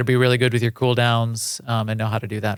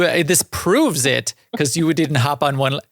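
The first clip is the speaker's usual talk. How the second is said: Osis adventurer voice. Retold or imitated. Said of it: "Is that your Osis adventurer voice?".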